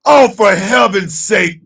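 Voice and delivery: slow and loud; drawn-out exasperation; exasperated. Real, not acted. Exasperated at chat.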